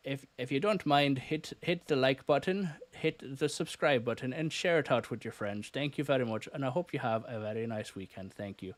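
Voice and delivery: a playful, hammed-up Irish accent for the sign-off; lightly put-on Irish lilt asking viewers to like and subscribe. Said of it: "I'll do my best Irish accent for you to say goodbye".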